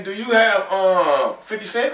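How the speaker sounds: high, hopeful asking tone; high mock asking voice. Guy on the street asking for change, in a high voice.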